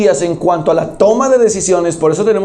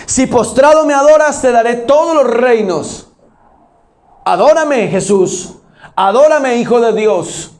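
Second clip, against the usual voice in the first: Satan tempting Jesus; 4 semitones higher than usual. Acted. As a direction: press Jesus to bow, insistently. Preacher voices Satan tempting Jesus.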